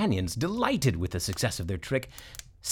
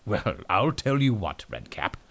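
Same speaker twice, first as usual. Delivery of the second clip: donkey voice; 2 semitones lower than usual. Acted. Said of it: "said the donkey".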